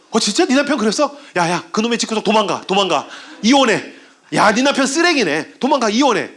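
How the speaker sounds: acted shock, jumping high in pitch; urgent, hammed-up egging on; indignant friend. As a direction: take your friend's side with mock outrage. Acted friend outraged at husband.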